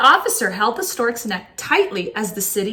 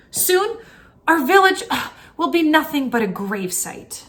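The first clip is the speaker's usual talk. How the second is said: lament; 6 semitones higher than usual. Acted. Tato lamenting the village's fate.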